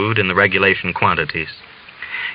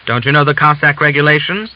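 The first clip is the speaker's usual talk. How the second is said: high, loud furious rebuke; wrathful scolding; 6 semitones higher, 4 dB louder than usual. Acted. Commissary berating the father, loud and higher. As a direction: pour your wrath on the old man. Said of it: "poured out the vials of his wrath".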